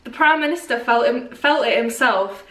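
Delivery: put-on Mancunian accent; Manchester accent. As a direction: read it like a Manchester local. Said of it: "Not like Manchester".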